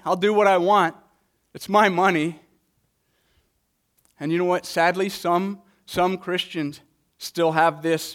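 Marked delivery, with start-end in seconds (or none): 0.0-2.4 mild retelling of a stubborn "It's my money"; defiant gambler quote. Retold or imitated. Pastor retelling a gambler on the radio, mild defiant quote. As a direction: lightly voice his defiance, no accent. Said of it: "He says".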